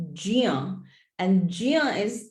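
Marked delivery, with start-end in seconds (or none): 0.1-0.8 "jia" with a j sound gliding into ya; "jia" starting on j, never a hard g; correct pronunciation. Shown as a demonstration. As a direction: present "jia" on its own as the right form. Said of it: "the correct pronunciation".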